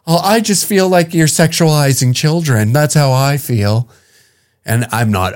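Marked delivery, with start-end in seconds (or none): 0.1-3.9 higher mocking whine; lightly parodying her feelings talk; mock whiny woman. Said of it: "you know, like".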